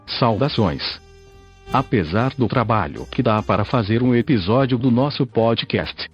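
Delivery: robotic text-to-speech voice. Real, not acted. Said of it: "falo através desta voz sintetizada".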